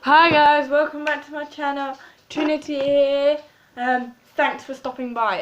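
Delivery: loud, high, bubbly channel greeting; over-the-top hello to viewers; hammed-up vlogger intro. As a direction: belt out a big YouTuber welcome.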